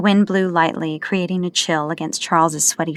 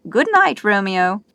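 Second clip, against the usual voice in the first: teasing; 3 semitones higher, 4 dB louder than usual. Acted. The speaker teasing after laughing.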